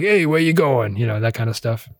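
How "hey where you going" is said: lightly voiced New Jersey cab driver, higher pitch; a hint of New Jersey accent in a mock gruff hail; gruff New Jersey cabbie. Gruff cabbie hailing a fare, light New Jersey accent. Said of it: "this gruff, uh, smoking cab driver, New Jersey accent type of guy".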